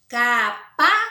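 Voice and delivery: "Capazes" split as ca-PA-zes, loud and high; "Capazes" slowly by syllable, strongest in the middle; middle syllable stressed. Shown as a demonstration. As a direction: hit "pa" in "Capazes", syllables apart. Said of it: "a mais forte é a do".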